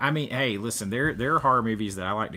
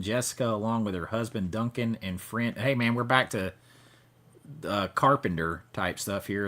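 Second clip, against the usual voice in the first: news anchor voice; 2 semitones lower than usual. Pretend. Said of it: "I'll stop with the news anchor voice".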